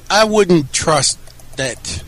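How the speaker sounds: each word drawn out slowly; slow and emphatic. Real, not acted. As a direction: lean on every word, unhurried. Emphatic rejection of WWE footage.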